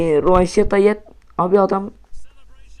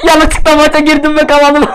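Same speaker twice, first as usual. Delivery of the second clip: mock voice; 12 semitones higher, 8 dB louder than usual. Mocking the opponent.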